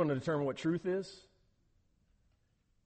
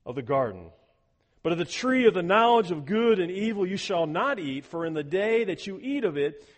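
measured, solemn scripture reading; 3 semitones higher, 6 dB louder than usual. Acted. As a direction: read the verse with weight. Reads scripture aloud.

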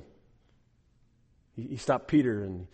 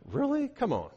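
incredulous; 11 semitones higher, 4 dB quieter than usual. Retold or imitated. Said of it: "It's kind of an incredulous kind of".

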